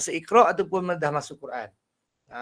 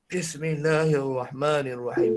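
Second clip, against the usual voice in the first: slow Bismillahirrahmanirrahim, lifting only a little; low voice, still can't lift; low voice that can't rise; 3 semitones lower, slower than usual. Shown as a demonstration. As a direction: strain upward and fail. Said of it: "Tak boleh-boleh naik".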